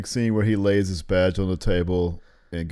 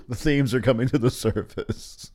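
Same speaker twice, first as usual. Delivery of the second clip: laughing; 3 semitones higher than usual. Real, not acted. Laughing while talking.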